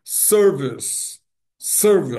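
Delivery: SERVICE as SER-vis, final E silent; two syllables. Shown as a demonstration. Teacher corrects the Brazilian habit, two-syllable SERVICE. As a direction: stress the first syllable of SERVICE, stop on s. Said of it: "duas sílabas".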